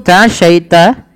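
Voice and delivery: slow "Ta'asyaita" rising at the end; questioning intonation. Shown as a demonstration. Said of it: "tapi dengan nada bertanya".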